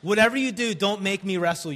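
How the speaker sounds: yelling across the room. Real, not acted. Getting kids' attention.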